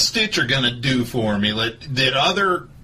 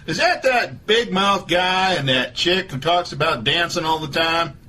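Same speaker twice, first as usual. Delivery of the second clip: Doctor Phil voice; 3 semitones higher than usual. Acted. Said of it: "This is Doctor Phil".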